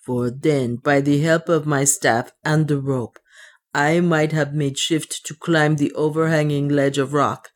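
lightly voiced dwarf with accented English; measured, slightly foreign-sounding dwarf; superstitious dwarf. Otter reasons with himself in the cave, lightly accented dwarf voice.

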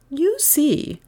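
high-pitched teacher's reproof; teacher rebuking. Acted. Miss Todd shows up a slow pupil, rebuking. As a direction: make the point high to the pupil.

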